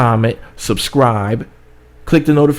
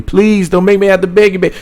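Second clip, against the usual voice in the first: begging; 6 semitones higher, 3 dB louder than usual. Real, not acted. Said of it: "No, I don't mind begging".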